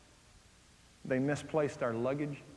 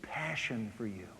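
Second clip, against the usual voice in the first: sultry whisper of invitation; 4 semitones lower, slower than usual. Acted. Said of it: "She says".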